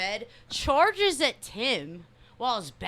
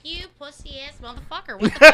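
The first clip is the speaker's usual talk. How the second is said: mock yell; 3 semitones higher, 9 dB louder than usual. Retelling cursing him out.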